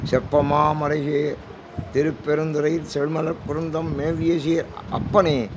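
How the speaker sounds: slow, drawn-out hymn recitation; verse recitation. Acted. Preacher reciting a Thiruvasagam verse to listeners, slow recitation. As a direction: recite the Tamil verse with long-held syllables.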